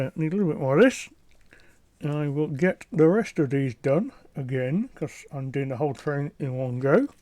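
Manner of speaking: talking around a paintbrush held in teeth; muffled words past a brush in the mouth. Real, not acted. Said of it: "with a paintbrush in my mouth".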